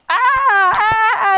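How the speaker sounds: high, half-hearted imitation of women screaming; quick high mock screams. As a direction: imitate panicked screams without full force.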